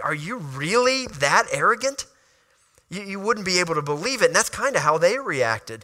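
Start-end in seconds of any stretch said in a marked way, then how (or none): 0.0-2.1 incredulous question, pitch climbing at the end; blown away. Retold or imitated. Stunned sibling hearing the boastful dream, mildly incredulous. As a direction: ask it in mild disbelief. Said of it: "blown away. You'd be like".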